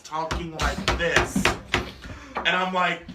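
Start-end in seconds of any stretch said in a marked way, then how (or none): 0.0-1.4 slow, over-careful enunciation, imitated; overusing words. Shown as a demonstration. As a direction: drag it out as if explaining to someone slow. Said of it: "overusing her words".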